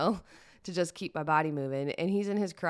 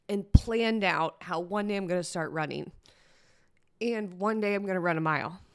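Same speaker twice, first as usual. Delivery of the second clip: higher-pitched, voice tight with real tears; teary; 3 semitones higher than usual. Real, not acted. Admitting to listeners why it mattered, teary and moved. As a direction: hold back tears as you say it. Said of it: "I don't know why I got teary-eyed about it".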